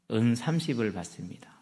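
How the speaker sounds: hushed whisper of the payment. Real, not acted. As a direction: breathe it like a secret. Judas takes the money.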